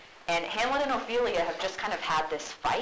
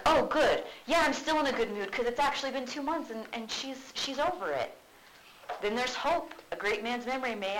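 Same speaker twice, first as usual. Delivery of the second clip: sarcastic; 5 semitones higher than usual. Retold or imitated. Hamlet mocking Ophelia about his mother, sarcastic. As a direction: sneer through fake delight. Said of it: "He's being sarcastic to her".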